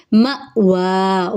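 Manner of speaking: مَأْوَا with a glottal catch on the hamza and the wa lengthened; tajweed recitation. Shown as a demonstration. Teacher showing the glottal stop to students, slow. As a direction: jerk the hamza in مَأْوَا, then stretch the final a. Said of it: "واو کے اوپر کھڑا زبر ہے، ایک الف کے برابر لمبا".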